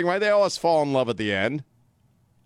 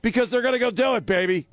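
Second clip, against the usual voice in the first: insistent tease; 8 semitones higher than usual. Retold or imitated. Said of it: "I'm like".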